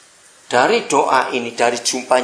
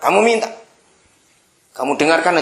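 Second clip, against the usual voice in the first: insistent father; 4 semitones higher, 5 dB louder than usual. Retold or imitated.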